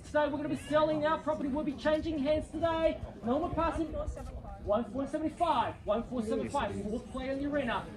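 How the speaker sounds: brisk auction call, rising at each bid; auctioneer calling bids. Real, not acted.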